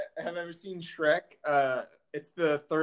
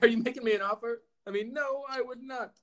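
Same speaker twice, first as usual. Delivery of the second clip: butchered quote; 5 semitones higher than usual. Retold or imitated. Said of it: "I butchered that".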